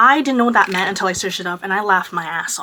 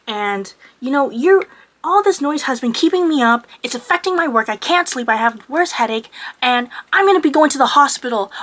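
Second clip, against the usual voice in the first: retold screaming; 4 semitones higher, 4 dB louder than usual. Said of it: "screaming at me".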